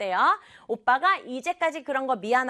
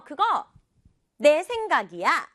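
내 raised and punched; stress on 내; 4 semitones higher, 4 dB louder than usual. Acted. Girl claims the idea as hers, stressing 내. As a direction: lean firmly on 내. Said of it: "라고 강조를 해서".

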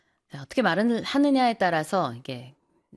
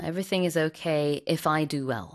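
slow model sentence; 3 semitones lower, much slower than usual. Shown as a demonstration. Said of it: "repeating the corrected sentence".

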